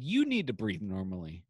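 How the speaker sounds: sarcastic repeat of the nurse's line; mocking echo. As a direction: throw her words right back at her. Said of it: "I said".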